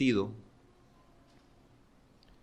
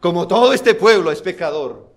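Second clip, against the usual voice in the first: louder, higher mock sigh of a casual sinner; a shrugging sinner; 8 semitones higher, 13 dB louder than usual. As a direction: parody the easy excuse. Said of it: "Él no dijo". (imitando con burla al que se excusa)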